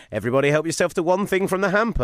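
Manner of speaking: imitating the bosses. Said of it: "they were like".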